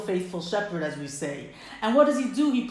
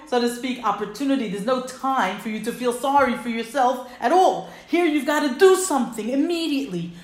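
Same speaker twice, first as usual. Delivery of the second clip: urgent, louder divine voice shaking him awake; urgent voice of God; urgent plea; 3 semitones higher, 6 dB louder than usual. Acted. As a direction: push him to act now.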